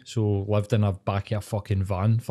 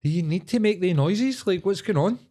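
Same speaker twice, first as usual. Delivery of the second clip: incredulous; 8 semitones higher than usual. Retold or imitated. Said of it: "You're like".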